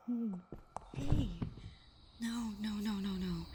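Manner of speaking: frightened calling out; alarmed. Acted. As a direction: snap them awake in fear. Partner collapsing from poison.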